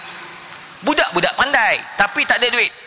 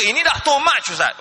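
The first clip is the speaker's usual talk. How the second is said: mock angry complaint; 3 semitones higher than usual. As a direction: object as if pushed too far. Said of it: "Oh, cik marah".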